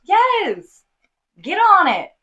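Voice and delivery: high, whooping encouragement; excited cheering. Real, not acted. Hyping up her friend before his mirror speech, high and excited.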